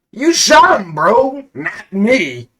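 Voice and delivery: very high, loud defensive yell; shrill high shouted denial; indignant protest. Acted. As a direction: deflect the blame in a panic. Player protests blame.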